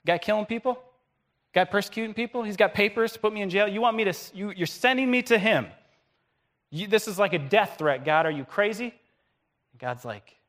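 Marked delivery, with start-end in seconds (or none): 0.0-8.9 higher, louder panicked protest; alarmed Ananias. Retold or imitated. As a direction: Ananias balking at God's order. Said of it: "You say".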